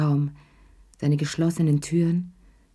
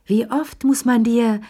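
higher and louder, exasperated; exasperated cry; 6 semitones higher, 5 dB louder than usual. A narrator's reading. Lea scolds Chéri about the ashtray, exasperated. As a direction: throw up your hands in the voice. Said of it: "rief Lea".

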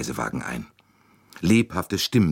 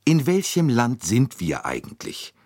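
Mrs Hubbard's higher fretful voice; desperate; 8 semitones higher than usual. A narrator's reading. Mrs Hubbard asking the passengers, desperate and high. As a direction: ask in exasperated despair. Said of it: "die verzweifelte Misses Hubbard".

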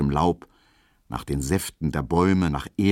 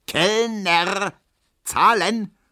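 high, carrying call to a waiter; stretched, high-pitched shout for service; 13 semitones higher, 4 dB louder, much slower than usual. A narrator's reading. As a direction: call across a busy beer garden for the bill. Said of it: "ruft Herr Ziebland".

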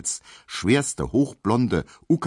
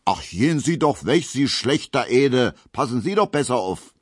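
put-on indignant young woman; 6 semitones higher, 3 dB louder than usual. Emma scolds the rough dancer.

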